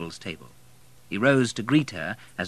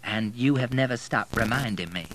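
teasing; 3 semitones higher than usual. Acted. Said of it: "she smiled teasingly".

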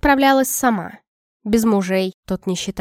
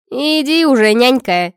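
loud scoffing brush-off; snorting; 2 semitones higher, 4 dB louder than usual. Acted. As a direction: snort it out with a mocking grin. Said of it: "фыркнула Арчанка".

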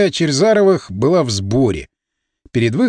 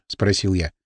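plain reading voice

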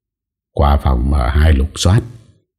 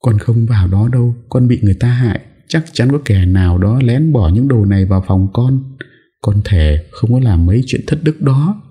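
higher, frightened begging; panicked pleading; 7 semitones higher than usual. Acted. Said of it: "vội gập đầu hoảng hốt". (giọng van xin hoảng hốt)

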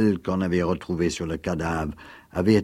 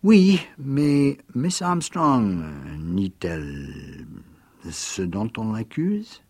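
innocent; 3 semitones higher, slower than usual. Acted. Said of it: "rayonnant d'innocence".

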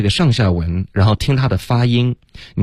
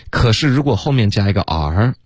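ordinary delivery

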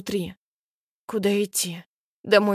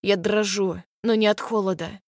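ordinary delivery

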